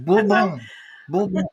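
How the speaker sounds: Bourbon said loud and high as boor-BON; French pronunciation. Shown as a demonstration. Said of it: "repeats the word in French style".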